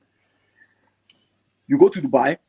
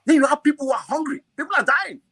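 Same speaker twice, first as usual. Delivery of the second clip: emotional; 11 semitones higher than usual. Real, not acted. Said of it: "it gets me emotional".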